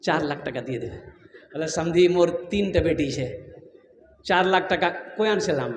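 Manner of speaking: low, soft bargaining voice; subdued pleading father. Acted. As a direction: drop low and quiet as the hard-pressed father. Acted bride's father bargaining over dowry.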